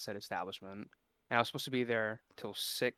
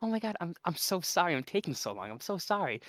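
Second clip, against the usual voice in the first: put-on old lady; 7 semitones higher than usual. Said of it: "she kept going".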